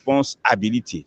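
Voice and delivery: responsibility said in English, not French; English word. Shown as a demonstration. Preacher glosses the term, saying responsibility in English. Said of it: "En anglais".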